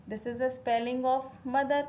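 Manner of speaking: slowed, mother stressed; slow teaching demo. Shown as a demonstration. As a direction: say it slowly, leaning on mother. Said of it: "मदर की spelling होती है".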